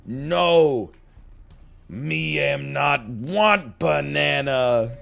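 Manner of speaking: playfully imitating his small daughter; toddler voice. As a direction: mimic a toddler's broken grammar. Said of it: "And then she goes".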